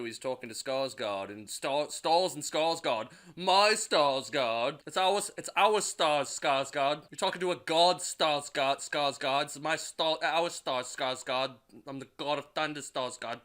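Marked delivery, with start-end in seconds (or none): 3.4-13.4 pompous Thor. Acted. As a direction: drag out Skarsgård like a lofty god. Mocking Thor lecturing Skarsgård.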